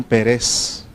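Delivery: Pérez said as pe-RES, stressed at the end; stress on last syllable. Shown as a demonstration. Teacher reading a place name, Pérez stressed on the last syllable. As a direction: put the weight on the second syllable of Pérez. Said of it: "no tiene acento en la E".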